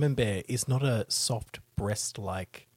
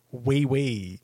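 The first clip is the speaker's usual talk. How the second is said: mock French; 4 dB louder than usual. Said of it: "write in a French accent".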